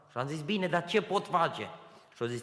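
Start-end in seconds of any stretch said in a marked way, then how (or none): 0.4-1.7 helpless plea. Retold or imitated. Pleading with the clerk.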